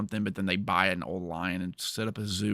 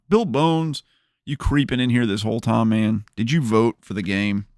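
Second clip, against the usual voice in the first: excited greeting; 6 dB louder than usual. Real, not acted. Greeting chat viewer loudly.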